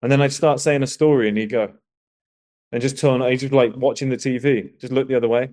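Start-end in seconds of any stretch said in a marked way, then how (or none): none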